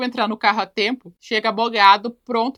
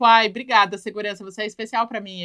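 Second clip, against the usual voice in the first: sweeter tone. Retold or imitated. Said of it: "ela já mudou o tom".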